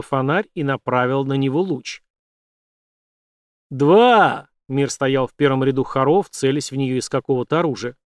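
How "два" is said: loud, slow threatening count; menacing countdown. A narrator's reading. Villain threatening to kill them both, loud slow countdown. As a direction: count down like an executioner.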